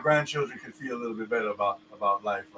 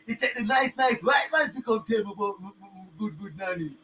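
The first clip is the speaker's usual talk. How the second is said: mock gratitude; 6 semitones higher, 4 dB quieter than usual. Sarcastically mocks grateful viewers.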